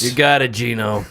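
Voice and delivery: vendor reply. Pretend. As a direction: answer like a friendly deli owner. Vendor answering customer order.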